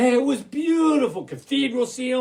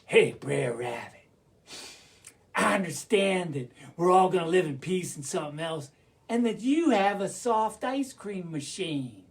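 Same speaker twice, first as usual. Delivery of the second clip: wolf character. Acted. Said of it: "then one of 'em says".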